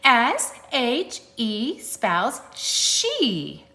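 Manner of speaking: put-on bright happy sing-song for kids. Shown as a demonstration. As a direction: sound delighted by every letter. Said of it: "in a happy voice".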